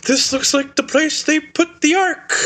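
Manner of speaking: high, slow, hammed-up villain; mock villain voice. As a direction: play a gasping Soviet colonel. Acts out Cate Blanchett's villain.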